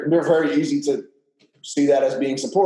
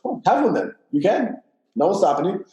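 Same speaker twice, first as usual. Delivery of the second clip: light, breezy and higher, not mad; casual, no-big-deal; 4 semitones higher than usual. Retold or imitated. Partner calmly letting him cheat, breezy and unbothered. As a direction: shrug it off as if it doesn't matter. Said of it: "she didn't get mad either".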